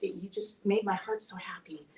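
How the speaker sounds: real whisper, choked with emotion; moved whisper. Real, not acted. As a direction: breathe it out, touched to the core. Moved, tearful praise to Valerie.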